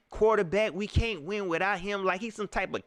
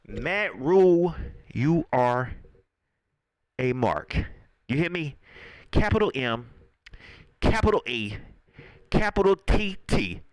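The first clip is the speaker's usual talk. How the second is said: loud spelled callout; 4 semitones lower, 4 dB louder than usual. Real, not acted. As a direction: spell it out loud to shame him. Calling the coach a mark.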